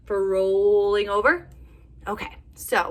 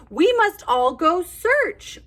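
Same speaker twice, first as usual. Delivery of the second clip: tweeting bird; 11 semitones higher, 7 dB louder, slower than usual. Acted. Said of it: "tweets from his perch".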